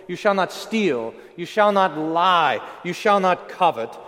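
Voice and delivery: a mild, measured divine proclamation; booming voice of God. Acted. God proclaiming the law from Mount Sinai, lightly booming. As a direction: lay down each commandment with weight. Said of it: "the Lord booms out the law".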